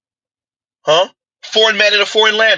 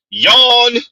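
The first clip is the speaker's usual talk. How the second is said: mock yawn; 6 semitones higher, 3 dB louder than usual. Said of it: "Complete yawn, y'all".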